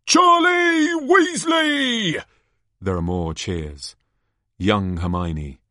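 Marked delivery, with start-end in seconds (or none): 0.1-2.2 very high, loud drawn-out cry; hammed-up showman shout; announcer's big reveal. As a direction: burst out with the grand reveal. Announcer cries out a name.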